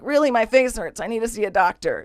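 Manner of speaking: pleading, mildly polite appeal; trying to be nice. Retold or imitated. Swollen-faced inmate asks guard for help, nicely. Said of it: "trying to be nice again".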